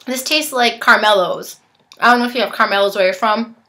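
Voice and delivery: talking with a mouth full. Real, not acted. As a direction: chew while speaking. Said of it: "I'm sorry for talking with my mouth full".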